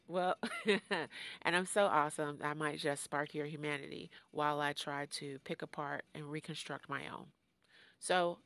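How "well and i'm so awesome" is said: slow, laughing through the boast; laughing brag. Real, not acted. Host joking about being awesome, laughing slowly. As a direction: crack up at your own bragging.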